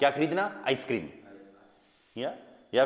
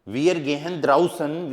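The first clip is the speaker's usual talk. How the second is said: very slow, slightly louder; slow dictation; 4 dB louder, much slower than usual. Shown as a demonstration. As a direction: read it out slowly for writing. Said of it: "teacher dictating slowly". (धीरे-धीरे लिखवाते हुए)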